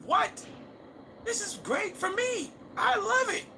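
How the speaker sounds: high mocking squeal of delight; mock fan squeal. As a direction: gush like an overexcited viewer.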